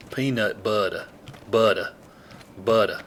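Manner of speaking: "butter" ending in "uh", no R; dropped R. Shown as a demonstration. Showing how his people said it, "butter" with no R. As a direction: say "butter" as "budduh". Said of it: "There was no R at the end of butter".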